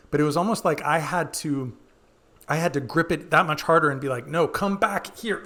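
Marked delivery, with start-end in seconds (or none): 4.3-5.4 higher-pitched, urgent call back; insistent mock command; firm self-command. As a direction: order it back to you. Acted order to own playfulness.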